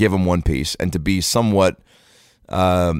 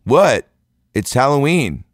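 high, loud, bratty retort; snapping back; 7 semitones higher, 5 dB louder, slower than usual. Retold or imitated. Kid to candy-giving mom, indignant snap back. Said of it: "this kid, like, snapped back".

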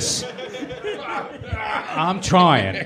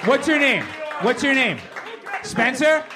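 frat bro; 8 semitones higher than usual. Pretend. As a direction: hype bro shouting a crowd. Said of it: "you need to do it in your frat boy voice".

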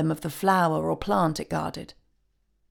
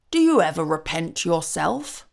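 curious; 3 dB louder than usual. Acted. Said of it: "asked Santa Claus curiously".

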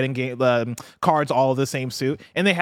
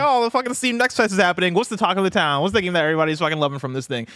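higher, eager nerd voice; 4 semitones higher than usual. Retold or imitated. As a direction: gush like an excited game nerd. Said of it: "He went to the nerd voice immediately".

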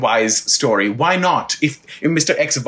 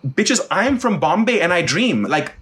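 high laughing sass at the callback; sassy retort; 9 semitones higher, slower than usual. Retold or imitated. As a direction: fling it back with a laugh, pitch climbing. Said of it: "I said".

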